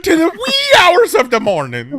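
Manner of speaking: high, loud mock-Scottish holler; hammed-up Scottish accent. Friend mocks the list reader's slip, hammed-up Scottish accent. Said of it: "like, a Scottish accent".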